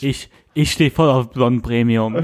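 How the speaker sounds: slow, tipsy drawl. Real, not acted. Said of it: "ich bin besoffener".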